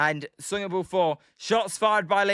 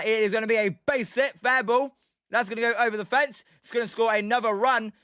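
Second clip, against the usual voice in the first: excited play-by-play; 3 semitones higher than usual. Acted. Streamer calling the Giants' double live for chat, excited play-by-play. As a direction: ride the ball to the fence like a live broadcaster.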